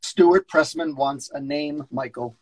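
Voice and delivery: a hint of a busy New York agent; agent on the phone. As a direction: brush him off mid-call. S0 reads George.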